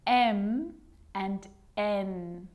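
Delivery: "M" with a long lip-hum, "N" with a long tongue hum; M versus N. Shown as a demonstration. Teacher contrasting two letters for learners, drawn-out M and N. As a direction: draw out "M" and "N" very slowly. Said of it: "show you the difference between".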